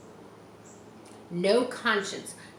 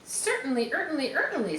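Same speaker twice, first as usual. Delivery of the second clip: mock gander; 6 semitones higher, faster than usual. Gander voiced in story.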